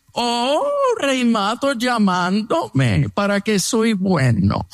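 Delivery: slow, sneering sarcastic drawl; mock the caller's sudden goodness; mocking sarcasm. Enemy answering the preacher's phone call, slow mocking sarcasm. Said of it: "su actitud es".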